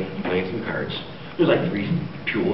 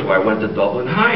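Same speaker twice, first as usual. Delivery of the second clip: lightly lilting Irish brogue; jokey put-on Irish accent; 2 semitones lower than usual. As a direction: answer as a stage Irishman. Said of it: "do I detect a bit of Irish?".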